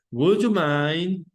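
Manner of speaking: drawn out slowly, each word spaced for students; slow model phrase. Shown as a demonstration. Teacher models the polite phrase.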